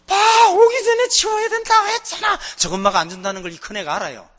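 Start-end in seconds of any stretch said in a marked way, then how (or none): 0.0-2.4 loud, high-pitched wailing complaint; hammed-up bawling protest; mock crying tantrum. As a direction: wail it like a child throwing a tantrum. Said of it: "땅바닥을 치면서 울어요".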